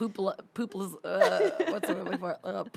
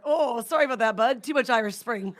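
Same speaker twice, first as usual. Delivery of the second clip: mock Irish accent, slightly higher and louder; attempted Irish accent; 3 semitones higher, 6 dB louder than usual. Joking to co-host about the soap, attempted Irish accent. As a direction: put on a half-baked Irish lilt, amused. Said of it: "All of a sudden you have an accent".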